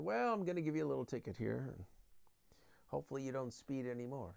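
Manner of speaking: unhurried manner, softening at the end; mildly, with no need to yell; calm policeman. Acted. Policeman handing a driver a ticket, calm and mild. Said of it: "He can very calmly".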